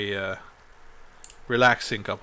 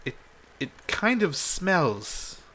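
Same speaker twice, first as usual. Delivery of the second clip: higher, slow, hesitant distaste; queen's mild distaste; 5 semitones higher, slower than usual. Acted. Queen shown a body from a bag, slow mild distaste. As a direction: draw it out delicately, pitched up.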